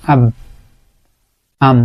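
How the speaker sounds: আব and আম with both lips pressed shut; lips closed demo. Shown as a demonstration. Teacher showing how the two lips meet, lips pressed shut. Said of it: "আমরা দুইটা ঠোঁটকে মিলিয়ে পড়ি".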